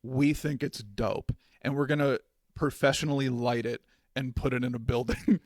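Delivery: lightly imitating an Indian British accent. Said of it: "That was like an Indian British accent".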